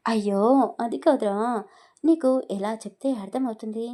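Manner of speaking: can't make him understand, exasperated. Acted. Exasperated with friend. (అర్థం కాక విసుగ్గా గట్టిగా అనడం)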